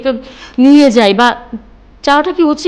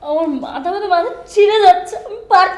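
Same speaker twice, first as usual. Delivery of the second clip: head-splitting frustration, rising to a raised voice; overwhelmed distress; 5 semitones higher than usual. Acted. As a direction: build from a complaint to a breaking point.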